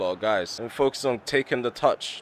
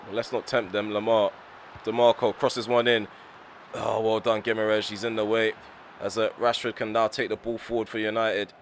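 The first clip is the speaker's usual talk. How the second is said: usual speaking voice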